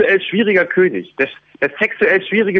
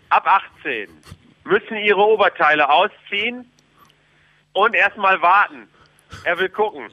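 royal proclamation. Pretend. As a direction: proclaim the king's will to the people. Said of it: "Hier spricht Ministerpräsident".

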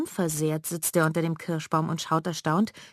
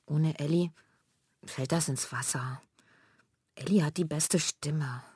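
sad. Acted. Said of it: "Traurig sagt Manja".

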